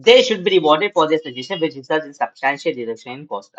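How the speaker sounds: slow, measured reading aloud to students; slow classroom read-aloud; slow textbook reading. Acted. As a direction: read each phrase out deliberately for the class.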